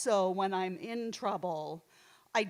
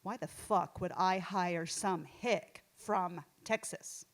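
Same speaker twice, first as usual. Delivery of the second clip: mock gruff interviewer; 3 semitones lower, 4 dB quieter, slower than usual. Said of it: "and he says".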